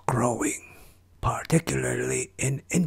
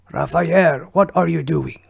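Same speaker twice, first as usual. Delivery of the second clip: alarmed shouting; 3 semitones higher, 6 dB louder than usual. Acted. Master alarmed, calls for help.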